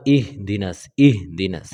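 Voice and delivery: ইহদিনাস with a full heavy স. Shown as a demonstration. Teacher showing a heavy স. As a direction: say ইহদিনাস thick, not thin. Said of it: "মোটা মোটা করে উচ্চারণ".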